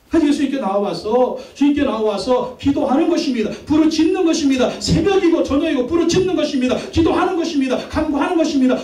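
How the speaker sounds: high, driving pulpit cadence; impassioned preaching. Real, not acted. Pastor urges prayer morning and night, impassioned high preaching. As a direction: build urgency phrase by phrase.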